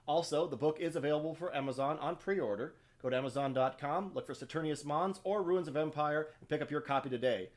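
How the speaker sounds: loud, cheerful podcast sign-off; upbeat promo read. Real, not acted. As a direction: pitch the book brightly. Author's upbeat promo outro.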